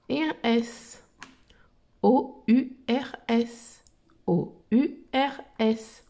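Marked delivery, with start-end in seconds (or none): 2.0-3.8 slow spelling. Shown as a demonstration. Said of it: "Un O, un U". 4.3-6.0 slow spelling. Shown as a demonstration. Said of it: "Un O, un U".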